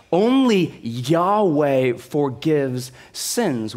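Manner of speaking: ONLY stretched out slowly; preacher repeating the key point; slow emphatic stress. Acted. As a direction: press "only Yahweh", very slow.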